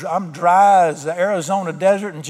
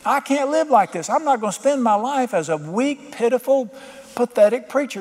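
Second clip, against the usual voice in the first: higher-pitched, insistent plea, retold; crying out to God; 4 semitones higher than usual. Pastor begging God for his Spirit, crying out. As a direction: retell a desperate prayer, building in force toward the end. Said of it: "I just kept crying out".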